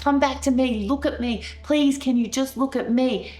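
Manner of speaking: trying to scream. Retold or imitated. Wife begging raging husband to look at her, crying out. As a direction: plead hard to get through to him. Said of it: "I'm trying to scream at Matt".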